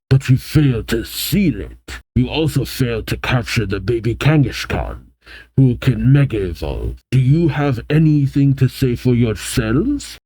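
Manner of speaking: lightly put-on French-accented reprimand; a hint of French in a measured voice. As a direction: scold the team in a loose French accent. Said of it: "I don't know why I'm giving a French accent".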